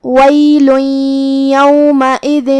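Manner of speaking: ویل یومئذ with the tanween merged into ی, nasal; idgham with ghunna. Shown as a demonstration. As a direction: blend ویل into یومئذ with a hum. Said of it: "ہم یہ حکم کو ایسے ادا کریں گے".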